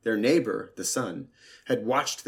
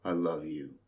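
lower, softer voice for the earth; 4 semitones lower, 3 dB quieter than usual. Acted. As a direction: speak it low and grounded as the earth. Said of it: "said the earth to the sea".

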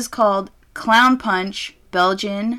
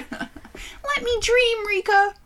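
laughing plea; much slower than usual. Real, not acted.

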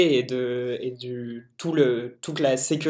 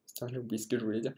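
trailing off; 3 semitones lower, 13 dB quieter, much faster than usual. Real, not acted. Annoyed aside after losing his thread.

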